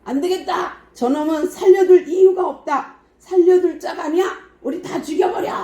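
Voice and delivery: high, heated cry of a lynch mob; mob attacking. Retold or imitated. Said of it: "그들이 달려들어서".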